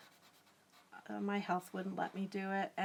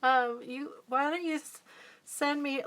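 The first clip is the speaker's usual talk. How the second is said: stuttering; 4 semitones higher, 3 dB louder than usual. Real, not acted. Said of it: "look at me, I'm all stuttering now".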